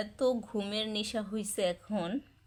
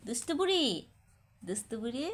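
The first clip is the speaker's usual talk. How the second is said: 1 teasing; 3 semitones higher than usual. Real, not acted. Teasing pet name.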